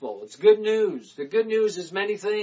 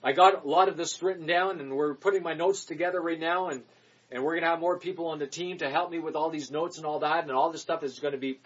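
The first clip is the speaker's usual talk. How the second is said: ordinary delivery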